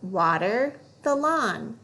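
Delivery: "water the lawn" read slowly, word by word; slow fluency read. Shown as a demonstration. Teacher reading a fluency phrase slowly.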